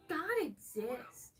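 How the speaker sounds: slow breathy mock whisper of "God exists"; mocking believer. Streamer mimicking a Christian in chat, slow mock whisper. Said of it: "you are like".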